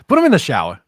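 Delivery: loud joking call. Real, not acted. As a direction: belt out \"Put him in the shower\" as the better joke. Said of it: "can we say shower".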